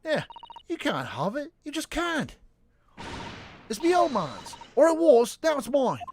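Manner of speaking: put-on high, loud cockney girl; street urchin girl. Street girl mocking the lawyer, high and cheeky. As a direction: snap back like a cheeky urchin.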